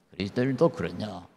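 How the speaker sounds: hushed echo of the question; quiet repeat. Shown as a demonstration.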